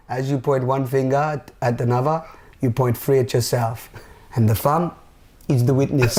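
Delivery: put-on a light Indian accent, like a swami quoting a proverb; lightly imitated Indian accent with a gentle storyteller's cadence. Quoting the Swami's proverb to a podcast guest, light Indian accent. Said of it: "That's my best Indian accent".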